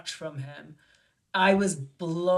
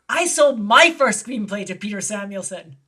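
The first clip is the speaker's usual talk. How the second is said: louder, emphatic mock disbelief; retold astonishment; 7 dB louder than usual. Screenwriter telling her he sold his script to the same man, astonished. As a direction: play his amazement at the coincidence, punched out. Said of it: "nearly fell off his chair".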